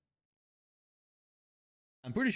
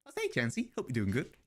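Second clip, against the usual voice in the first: playful "I say" British voice; light posh British accent; mock posh British; 4 dB quieter than usual. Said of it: "British voice a lot of people go for".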